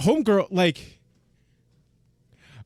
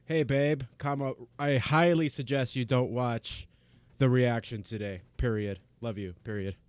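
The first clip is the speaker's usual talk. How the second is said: softer, slow hushed dictation of a text; hushed reading; 4 semitones lower, 7 dB quieter, slower than usual. Real, not acted. Reading a text to her wife while her wife sleeps, hushed. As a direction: keep it down so the wife doesn't wake. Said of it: "My wife is probably still sleeping".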